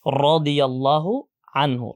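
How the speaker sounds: slow রাদিয়াল্লাহু with a thick rounded first "ro"; heavy letter. Shown as a demonstration. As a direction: model রাদিয়াল্লাহু slowly, heavy rolled r. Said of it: "মোটা করে উচ্চারণ করতে হবে". (ধীরে, মোটা র দিয়ে রাদিয়াল্লাহু)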